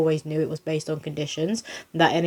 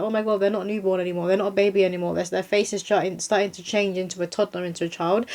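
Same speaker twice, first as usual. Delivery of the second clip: teary-eyed mock lament; 2 semitones higher than usual. Parent tearing up that baby is growing, mild mock weepiness. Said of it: "teary-eyed and be like".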